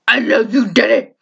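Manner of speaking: lightly voiced trailer quote; movie trailer line. Brother teasing dad, a hint of a movie trailer voice. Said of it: "imitating the scene from the trailer".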